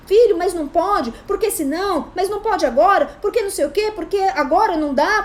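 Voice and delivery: frantic over-explaining. Retold or imitated. A parent fumbling excuses to a tantrumming child, pleading. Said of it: "a gente fica querendo explicar".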